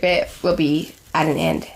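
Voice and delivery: low, dramatic finish. Real, not acted. Vlogger lamenting the end of the series, mildly dramatic. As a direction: drop low for mock-grave finality. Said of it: "that was more dramatic".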